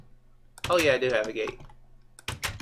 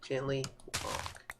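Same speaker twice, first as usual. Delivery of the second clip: slow, much softer voice; 12 dB quieter, slower than usual. Real, not acted. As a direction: ease it out gently. Stops running, walks gently.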